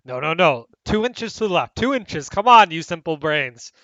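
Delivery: lightly voiced exasperated foreman directing workers; bossy architect. Architect directing the blockheads, bossy and impatient. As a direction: order the dim workers about, with emphatic bursts. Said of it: "gone back to directing the blockheads".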